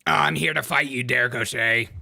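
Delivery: loud, hammed-up Irish challenger; put-on Irish accent. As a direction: pick a fight in a mock Irish accent. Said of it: "my Irish accent".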